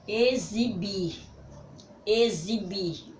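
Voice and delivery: "Exibir" drawn out slowly so the X sounds like Z; teacher slowly sounding out "Exibir" for children; sounding out the word. Shown as a demonstration. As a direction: stretch "Exibir" slowly to make the Z sound heard. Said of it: "através da pronúncia da palavra".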